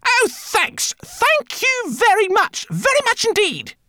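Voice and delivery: high, slow, sarcastic drawl; sarcastic thanks. Acted. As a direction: drip with sarcasm.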